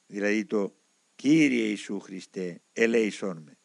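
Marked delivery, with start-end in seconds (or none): 1.2-3.6 slow, low recital of the prayer; quoted prayer. A narrator's reading. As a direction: quote the prayer slowly, in a lowered voice. Narrator quotes the prayer as explanation. (αργή, χαμηλόφωνη παράθεση προσευχής)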